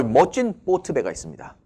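ordinary talk

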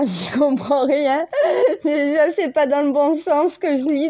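laughing through the words; amused. Real, not acted. Admitting to listeners she can't read old Arabic, amused. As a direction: let giggles break into the line.

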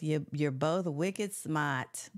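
put-on slow Boston accent, wicked smart. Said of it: "In his Boston accent".

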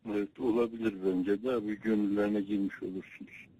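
over a landline phone. Real, not acted. Phone call with the elder.

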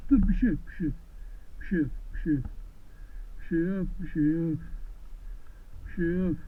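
low, gentle reassurance; calm an animal with a softly repeated murmur; soothing. Real, not acted. Calming an uneasy animal.

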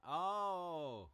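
very loud, high startled cry; surprised shout. Real, not acted. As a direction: jolt out a sudden yelp.

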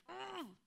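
frustrated groan. Acted. Acting out a flash of feeling.

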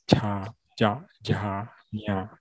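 slow, soft 加加加呀 one at a time; slow syllable demo. Shown as a demonstration. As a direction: model 加加加呀 gently, syllable by syllable. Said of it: "都是在同一个地方".

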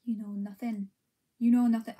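half-hearted Scottish accent; tentative, badly faked Scottish accent; attempted Scottish accent. Shown as a demonstration. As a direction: try a Scottish accent and give up. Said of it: "I can't do a Scottish accent".

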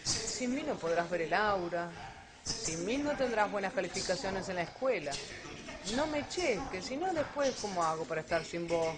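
the clingy inner voice that won't leave; little voice. Retold or imitated. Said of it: "te habla con esa vocecita así".

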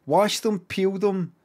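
hyping it up like an ad; excited. Retold or imitated. Excitedly quoting advert.

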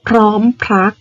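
พร้อมพรัก with the r sounded in both syllables; true r clusters. Shown as a demonstration. Teacher modelling a cluster word for pupils, r clearly sounded. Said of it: "เป็นคำควบกล้ำแท้".

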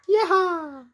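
cowboy whoop. Pretend. Cowboy whoop after rings.

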